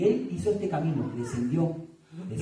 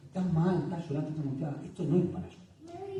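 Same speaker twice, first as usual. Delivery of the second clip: dismissive comforter; 6 dB quieter than usual. Shown as a demonstration. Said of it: "Entonces digo".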